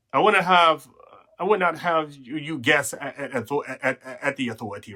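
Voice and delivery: breathless, stumbling restart; out of breath. Real, not acted. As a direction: talk while catching your breath. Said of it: "I'm kinda out of breath here".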